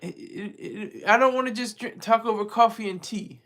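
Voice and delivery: badly faked, halting Russian accent; horrible Russian accent. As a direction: put on a bad Russian accent as Putin. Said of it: "It's horrible, uh, accent".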